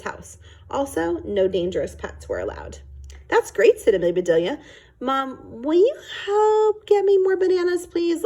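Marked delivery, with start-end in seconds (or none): 3.3-3.8 put-on delighted girl. Amelia delighted by the permission. 5.0-8.2 put-on high, bright child begging mom; a kid pleading sweetly for more bananas, up high; eager little girl voice. Narrator voices eager Amelia.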